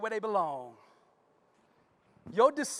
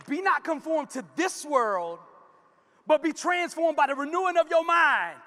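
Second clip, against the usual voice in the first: preached scripture; 6 semitones higher, 4 dB louder than usual. Acted.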